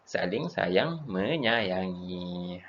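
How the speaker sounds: slow emphasis. Shown as a demonstration. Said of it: "itulah orang yang".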